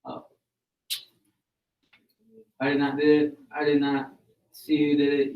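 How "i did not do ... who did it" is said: mildly raised voice, louder reading; firm, louder denial read aloud; emphatic denial. Acted. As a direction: protest innocence a bit louder. Student reads sentry's denial aloud.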